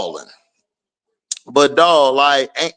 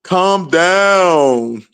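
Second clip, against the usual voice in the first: mocking Nola. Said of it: "Nola was like".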